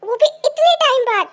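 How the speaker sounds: delighted surprise. Acted. Delighted at friend's visit.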